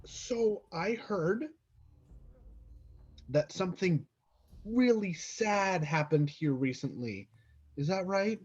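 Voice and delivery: soft, slow, careful words; hushed. Acted. Adventurer speaking softly near sleeping toddler, hushed. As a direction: keep it down so the baby sleeps.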